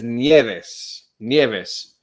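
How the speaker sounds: Nieves said slowly as "nyeh-vess"; Spanish pronunciation. Shown as a demonstration. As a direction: repeat Nieves carefully the Spanish way. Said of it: "Rod got it. He says it's".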